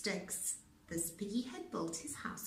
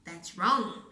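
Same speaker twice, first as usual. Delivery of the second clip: cried out; 8 dB louder than usual. A narrator's reading. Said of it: "cried the wolf".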